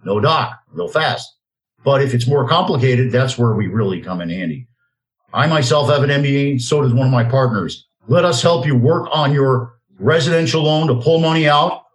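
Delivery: a personal pitch read for his loan business, slowing down on the phone number; a talk-show host reading his own ad, lightly salesy; radio ad read. Acted. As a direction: sell it like a host's own sponsor spot.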